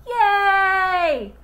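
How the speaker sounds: very high, loud cheer. Acted. The kids cheering Joy's throw, excited. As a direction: whoop it. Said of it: "All the kids behind her cheered".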